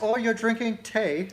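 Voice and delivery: put-on joking British tea-time accent; mock British accent. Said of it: "to talk in a British accent".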